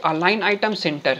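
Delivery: a bit slowed dictation; dictating. Shown as a demonstration. Teacher telling students what to type, slowed. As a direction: read the code out steadily. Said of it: "यहाँ पे लिखिए".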